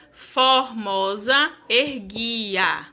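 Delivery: very slow verse reading; poem recital. Shown as a demonstration. Teacher scanning a verse for the class. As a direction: draw the words out slowly. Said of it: "Sete sílabas".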